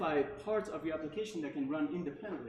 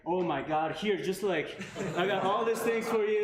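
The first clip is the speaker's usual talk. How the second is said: imitating an excited colleague, a bit louder; excited Alex; 2 semitones higher, 6 dB louder than usual. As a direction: retell his gushing, eager outburst. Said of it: "He was, like, so excited".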